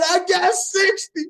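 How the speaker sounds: high, loud, slow gotcha line; smug mic-drop reply; triumphant comeback. Retold or imitated. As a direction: land it like the winning card. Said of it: "I said".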